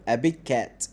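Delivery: a big cat as one linked phrase, no gap. Shown as a demonstration. Teacher showing pupils a big cat said all at once. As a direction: slide from big into cat without releasing the G. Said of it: "تحس إن قلتهم مرة واحدة".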